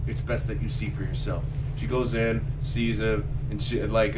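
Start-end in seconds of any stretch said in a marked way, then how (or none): 0.1-1.4 low, soft bad-news doctor voice; lightly voiced doctor breaking grim news; grave doctor. Doctor quietly telling a mother about her son, low and grave. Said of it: "He's all like".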